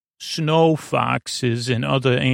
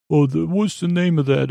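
higher, puzzled friend impression; Scooter voice; 4 semitones higher than usual. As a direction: do a higher confused buddy voice. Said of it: "that's my Scooter voice".

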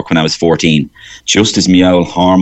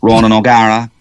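lightly imitated Cork rugby man; understated impression, level and restrained in pitch; Ronan O'Gara. Comedian contrasting two old Pres boys, understated Cork sportsman impression. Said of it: "he sounds totally different to George Hook".

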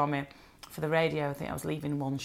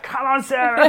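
higher, louder imitation of an eager coach; mock urging shout; 7 semitones higher, 8 dB louder than usual. Imagining Goldie egging her on in class, mock shout. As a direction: playfully call out encouragement.

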